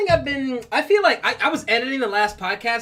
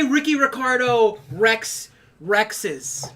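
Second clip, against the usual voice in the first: slow tongue twister; much slower than usual. Shown as a demonstration.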